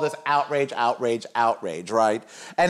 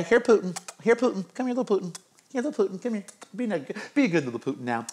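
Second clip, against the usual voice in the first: calling a puppy; 4 semitones higher, faster than usual. Pretend. Host mockingly calls Putin like a misbehaving puppy, high and coaxing. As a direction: coax him over like a pet dog.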